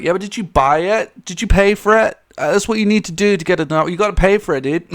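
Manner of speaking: a touch of mock salesman insistence; a famous singer. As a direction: press the fan to pay up. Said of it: "and the singer's just like".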